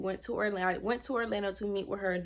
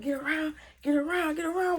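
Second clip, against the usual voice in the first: high, rising play-by-play; frantic scrambling; 7 semitones higher than usual. Retold or imitated. Wrestling him on the bed, frantic. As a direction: act out the scramble, pitch climbing each time.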